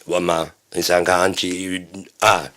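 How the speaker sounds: made-up language babble; gibberish talk. Shown as a demonstration. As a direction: babble nonsense syllables as if conversing. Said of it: "Otherwise, I could just go".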